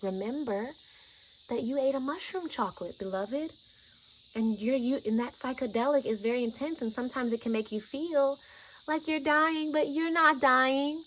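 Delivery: tender, measured reassurance; speaking love. Retold or imitated. Guide explaining the trip to a scared friend, loving calm. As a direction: calmly talk them through the fear. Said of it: "I'm speaking in this tone".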